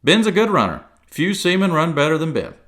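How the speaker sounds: high, loud, eager rush; excited. A narrator's reading. Silver putting on excitement for Jim, loud. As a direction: fake a show of excitement. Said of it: "now quite excited".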